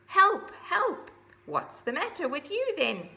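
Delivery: high, loud cries of help; horse calling out. Acted. The high horse asking Ozzy what's wrong, high and loud. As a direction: call out in alarm. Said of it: "said the high horse".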